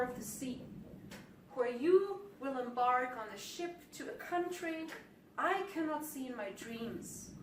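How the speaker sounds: slow recital in short, spaced phrases; poem reading. Acted. Poet reads Journey, about watching someone leave, in slow measured recital.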